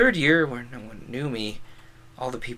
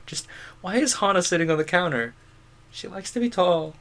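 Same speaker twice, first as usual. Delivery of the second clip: higher, put-on comic voice; meme re-enactment; 5 semitones higher than usual. Streamer redoing the dog meme with Hana, comic voice. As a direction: lift the pitch for the silly exchange.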